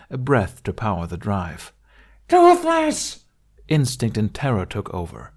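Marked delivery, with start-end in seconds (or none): 2.3-3.2 high, much louder cry of the name; anguished scream. Acted. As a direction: scream as the axe rises. Axe about to fall.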